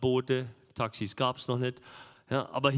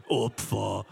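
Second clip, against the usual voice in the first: mocking pupil; 4 semitones lower than usual. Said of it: "wisst ihr, was die sagen würden?".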